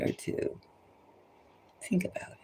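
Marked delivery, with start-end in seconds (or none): 1.8-2.4 urgent hushed whisper. Real, not acted. Urging listeners to reflect, whispered. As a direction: lean in and whisper it.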